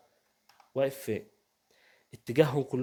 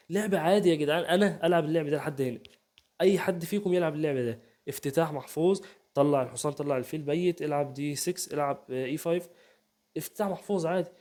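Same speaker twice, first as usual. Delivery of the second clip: mock casual boast; 3 semitones higher than usual. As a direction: brag as if it's nothing. Mocking player's casual boast.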